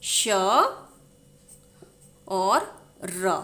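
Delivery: श and र stretched slowly apart; slow spelling out. Shown as a demonstration. Teacher slowly splits श्रा into its letters. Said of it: "किन दो वर्णों को मिलाकर".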